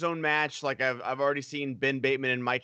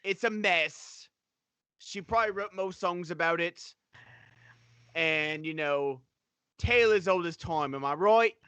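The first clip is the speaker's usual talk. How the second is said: put-on British Australian accent. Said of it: "Love your British Australian accent".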